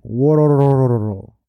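imitated villain laugh, long rolling syllables; Kaido laughing. Manga reviewer voicing a villain who starts laughing, mock laugh. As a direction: draw out a mock booming laugh on one rolling sound. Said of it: "Kaido starts laughing".

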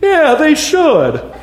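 high, loud squawky parrot, dragged out; storybook parrot voice. Retold or imitated. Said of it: "the voice I use of the parrot".

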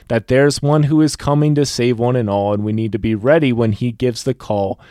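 measured, rhythmic recital of a rhyming poem; poem reading. Acted. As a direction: read it like a heartfelt poem. Reads a poem aloud.

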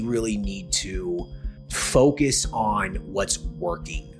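slow emphatic. Real, not acted. Host stresses key takeaway.

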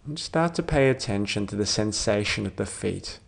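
calm, measured meditation voice with long pauses; guided meditation. Real, not acted. Doctor leading a listener towards sleep, calm guided meditation. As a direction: gently guide them through it, leaving space to breathe.

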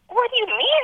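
very high retold disbelief; incredulous. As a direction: act out amazement, pitch shooting up. Amazed reply to family's news.

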